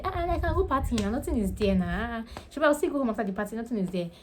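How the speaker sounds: pitched high, fast, breezy pidgin-flavoured bravado; a hammed-up party-goer shrugging it off; mock carefree pidgin. Speaker pretending to a friend she'd party, high breezy pidgin bravado. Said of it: "Now imagine I pretended. I was putting, and I said".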